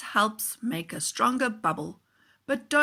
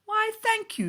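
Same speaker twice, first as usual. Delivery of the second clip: higher, pleased thanks; smiling man; 13 semitones higher than usual. Acted. Bubble man thanks the boy, smiling. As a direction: thank him with a smile in the voice. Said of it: "smiled and said".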